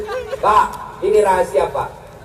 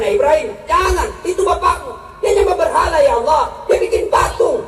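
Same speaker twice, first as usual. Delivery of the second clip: protesting Ibrahim; 4 semitones higher than usual. Retold or imitated. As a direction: protest hotly about the idols. Ibrahim arguing about his father.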